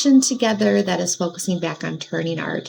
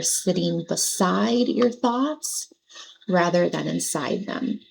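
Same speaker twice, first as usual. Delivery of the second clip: guided meditation. Acted. Meditation teacher helping listeners let their thoughts pass, gentle guidance. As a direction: ease them gently through the visualization.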